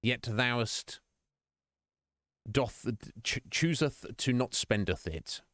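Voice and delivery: halting, hammed-up archaic plea; light parody of solemn praying; mock prayer. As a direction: intone it slowly like a pretend supplication. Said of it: "I've not been praying to Jeffrey".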